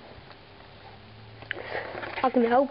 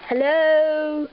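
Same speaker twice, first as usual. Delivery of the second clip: raised calling voice; calling down a hallway; 4 dB louder than usual. Pretend. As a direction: call out into the dark. Calling into the hutch.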